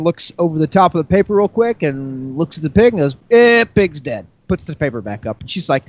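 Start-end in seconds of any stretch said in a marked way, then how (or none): 3.3-4.3 higher put-on offhand vet voice; dismissive vet. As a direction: play a vet who can't be bothered. Joke's indifferent vet dismisses pig.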